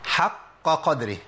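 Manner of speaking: "حق قدره" with each qaf sounded slowly; three qafs in a row. Shown as a demonstration. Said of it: "لو جه بقى تلات قافات ورا بعض". (نطق القافات الثلاث بوضوح)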